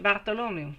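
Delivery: Bartholomew in French, sounding almost Italian; French pronunciation. Shown as a demonstration. Reader testing the name aloud in a French pronunciation. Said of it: "it almost sounds Italian when I say it like that".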